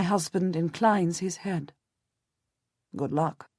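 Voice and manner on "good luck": softer and lower, subdued; a low, sober good wish; quietly. A narrator's reading. Husband wishing Jasper luck, softly. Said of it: "he says quietly".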